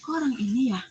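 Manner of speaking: a touch of surprise as it dawns on you; startled. Retold or imitated. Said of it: "Ya, saya kaget".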